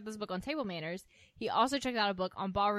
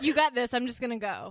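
mock eager farewell; 4 semitones higher, 6 dB louder than usual. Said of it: "I said I would be like".

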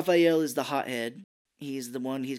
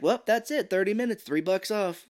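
much higher, louder triumph; gleeful; 7 semitones higher, 4 dB louder than usual. Retold or imitated. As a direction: gloat at the clock. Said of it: "he's like".

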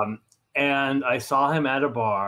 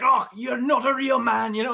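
scornful tough guy; 9 semitones higher, 4 dB louder than usual. Retold or imitated. Imagined scolding from the writer.

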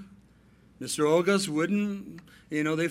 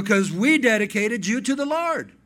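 firm father; 4 semitones higher, 6 dB louder than usual. Retold or imitated. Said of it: "And I go".

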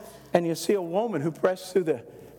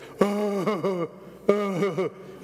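imitated low crying; 2 semitones higher than usual. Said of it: "he cried like this".

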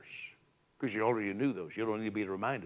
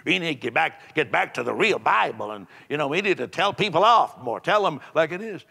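mocking critics; 5 dB louder than usual. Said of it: "Some would say".

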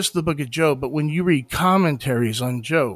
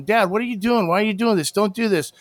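put-on higher childlike pleading to dad; mock kid nagging, pitched up; child pleading; 5 semitones higher, faster than usual. Child nagging his father, pitched up.

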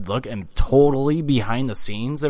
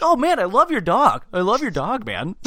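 much higher, gushing fake praise; fake nice MJF; 9 semitones higher than usual. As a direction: gush over the dog for Cody. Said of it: "M J F's like".

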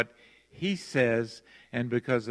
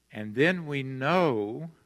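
"know" said slowly and leaned on hard; slow right down and land firmly on "know"; stress on know; slower than usual. Shown as a demonstration. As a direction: lean into "know" like a certainty, not a maybe. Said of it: "and I emphasize that word".

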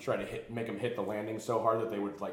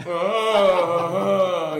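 much higher, loud startled yelp; 10 semitones higher, 16 dB louder than usual. Retold or imitated. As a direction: yelp like the fight just left him. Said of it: "the kid's like".

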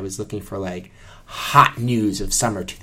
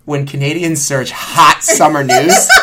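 laughing; 3 semitones higher, 6 dB louder than usual. Retold or imitated. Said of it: "where I was like".

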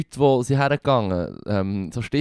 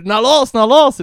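mock crowd shout; 11 semitones higher, 8 dB louder than usual. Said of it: "wenn jemand ... ruft".

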